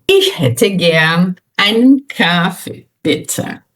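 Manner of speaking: slow, deliberate German with pauses between phrases; model for repetition. Shown as a demonstration. Teacher closing the exercise for students to repeat, slow modelling. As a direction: stretch the words so a learner can follow. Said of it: "Repita comigo e faça o melhor que você puder".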